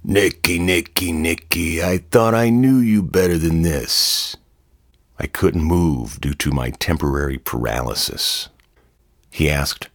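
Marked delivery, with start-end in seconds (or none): 0.0-4.4 a hint of a gruff bully; lightly voiced disappointed tough guy; gruff Marlon. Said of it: "Marlon said gruffly".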